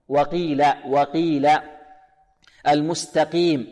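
وقيل with a plain "qi", not thickened; least-heavy qaf. Shown as a demonstration. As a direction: recite المستقيم with a clean, lightly heavy qi. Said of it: "يعني في المرتبة الخامسة".

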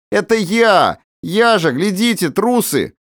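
high cheerful shout; merry cry. A narrator's reading. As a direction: cry out gleefully. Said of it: "весело вскричал он". (весело вскрикнуть)

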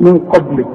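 قبل with a closed b straight into the l; awkward unbounced ب. Shown as a demonstration. Teacher showing the difficulty in pronunciation, no bounce in قبل. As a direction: say قبل without releasing the ب. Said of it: "فيه صعوبة في النطق".

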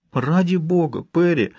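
high, distressed plea; trembling voice. A narrator's reading. Richard pleading with the medium, voice trembling. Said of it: "голос Ричарда дрожал".

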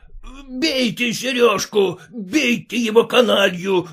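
mild mock angry command; shouting. A narrator's reading. Konkonych orders his men to beat Sergei, shouting. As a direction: urge the men on to beat him. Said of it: "кричал Конконыч".

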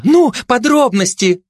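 high, drawn-out nosy demand; high-voiced busybody, stretched words; eager gossip. A narrator's reading. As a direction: press greedily for details.

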